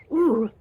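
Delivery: high, loud "ooh"; triggered "ooh". Shown as a demonstration. Speaker shows listeners a triggered feeling, pent-up ooh. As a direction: let out a short pent-up ooh.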